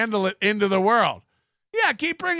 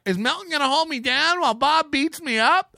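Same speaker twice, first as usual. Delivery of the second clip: mock worried rival; 7 semitones higher than usual. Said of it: "He's like".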